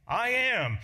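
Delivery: loud, high I am; emphatic proclamation. Acted. Jesus answering his enemies, loud and high. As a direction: ring out I am. Jesus claims divine name.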